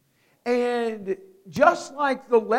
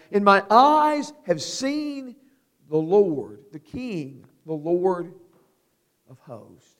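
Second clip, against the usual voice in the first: Isaiah's lament; 5 dB louder than usual. Acted. Preacher as Isaiah having seen the Lord. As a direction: cry out, then fall silent in awe. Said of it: "Isaiah receives no comfort".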